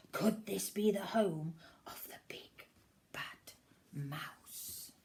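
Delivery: whispered storytelling suspense; suspenseful whisper. A narrator's reading. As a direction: hush them, is it the mouse. Spooky suspense.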